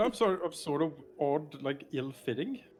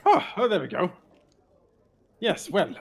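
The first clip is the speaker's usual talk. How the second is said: loud, theatrical showman greeting; Volo voice; 5 semitones higher, 10 dB louder than usual. Acted. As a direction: boom out a flustered, flowery hello.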